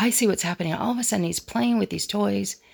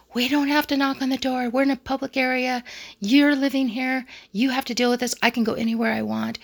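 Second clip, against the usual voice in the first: much higher, mock defiant girlfriend; imitating the girlfriend's high indignant comeback; retold indignant retort; 6 semitones higher than usual. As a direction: toss it back high and snippy, imitating her. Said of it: "And everything sparked".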